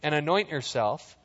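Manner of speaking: measured, even Bible reading; calm scripture read. Acted. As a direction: read the passage steadily to the congregation. Reads scripture aloud.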